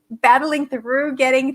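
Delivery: scratchy, strained voice; losing voice. Real, not acted. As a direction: push through a losing voice. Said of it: "I'm losing my voice".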